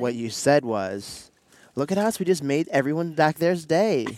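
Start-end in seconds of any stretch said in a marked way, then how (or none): 1.8-4.0 teasing, higher Valley Girl imitation; mock Valley Girl gushing. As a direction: mimic a self-pleased Valley Girl. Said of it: "I said it in my Valley Girl voice".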